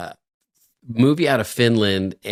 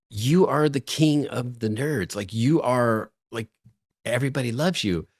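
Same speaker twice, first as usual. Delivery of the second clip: insistent; 3 semitones higher than usual. Retold or imitated. Co-worker reassuring his frustrated friend, insistent. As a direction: insist as if it were obvious.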